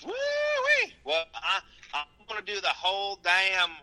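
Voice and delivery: high yelping Southern holler; hammed-up redneck whoop; Southern woo-wee. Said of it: "segment in this voice".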